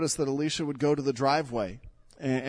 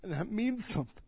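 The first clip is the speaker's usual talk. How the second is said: quiet echo; 5 semitones higher, 9 dB quieter, faster than usual. Real, not acted. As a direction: repeat it much softer, almost to yourself. Pastor repeats the line softly.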